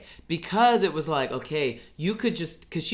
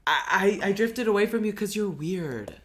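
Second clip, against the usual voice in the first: dismissive character; 5 semitones higher than usual. Retold or imitated. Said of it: "Jin Wen is like".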